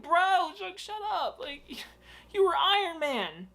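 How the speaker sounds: high exasperated whine; exasperated at the actor. Real, not acted. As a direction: throw up your hands in disbelief.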